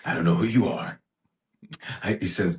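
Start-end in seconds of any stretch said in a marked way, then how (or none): 0.0-1.0 a light Liam Neeson menace; Liam Neeson impression. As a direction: growl it like Liam Neeson in Taken. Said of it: "I'm gonna try to do my Liam Neeson voice".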